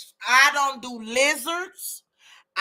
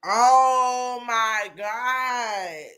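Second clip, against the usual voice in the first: stretched horrified cry; much slower than usual. Real, not acted. Horrified at snake feeding.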